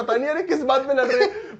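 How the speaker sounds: tickled by a pointless fight; amused laughter. Retold or imitated. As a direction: retell it through giggles. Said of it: "मेरे को मस्त हंसी आ रही है".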